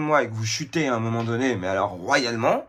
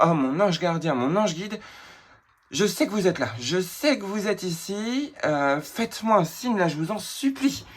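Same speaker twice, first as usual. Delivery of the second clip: higher, imploring plea to the angels; pleading prayer; 5 semitones higher than usual. Retold or imitated. At the end of his rope, he begs his guardian angel for a sign, higher, imploring. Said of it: "j'ai dit comme ça".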